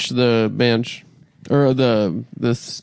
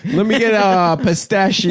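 high goofy character voice; 7 semitones higher than usual. Retold or imitated. Voicing Corky ordering ice cream.

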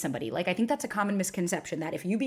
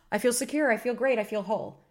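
mock awakening; 3 semitones higher than usual. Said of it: "you're like".

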